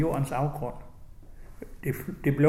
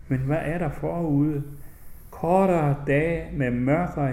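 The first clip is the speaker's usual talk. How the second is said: literary reading. Acted. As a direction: let each image land, unhurried. Reads his book aloud.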